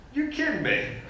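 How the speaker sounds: high-pitched disbelieving "you're kidding me"; incredulous. Retold or imitated. Commuter told he could be arrested, incredulous. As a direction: sound like you can't believe your ears. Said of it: "I'm a little incredulous".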